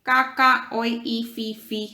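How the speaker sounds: parrot squawk. Shown as a demonstration. Teacher mimics parrot language.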